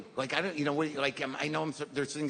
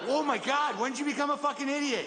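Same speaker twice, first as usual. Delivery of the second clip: stunned disbelief; 9 semitones higher than usual. Retold or imitated. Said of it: "I'm like".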